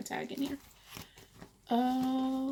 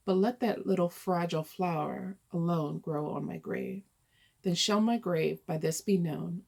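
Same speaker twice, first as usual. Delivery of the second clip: simple, steady verse reading; poem reading. Acted. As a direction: read the old verse evenly, line by line. Reads out the poem.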